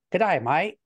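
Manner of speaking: imperfect Aussie accent from back in the throat; attempted Australian accent. Shown as a demonstration. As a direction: try an Australian accent, a bit unsure. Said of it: "working on my Australian accent".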